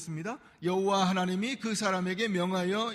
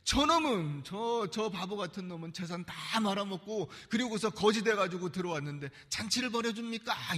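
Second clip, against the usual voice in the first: sulky son. Retold or imitated. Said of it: "삐져가지고 막 입이 이만큼 나왔어요".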